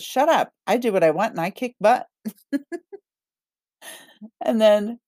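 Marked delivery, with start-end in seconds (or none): 0.0-2.1 a touch louder and brisk, brushing off doubt; bold rational self. Retold or imitated. Reader voicing her rational self answering her doubts, bold and brisk. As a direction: snap back at the inner critic, mildly hammed. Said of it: "her rational self says".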